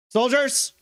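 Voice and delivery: high, loud military call; sudden officer's shout; shouted command. Acted. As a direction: call the troops to attention. Colonel calls troops to aim.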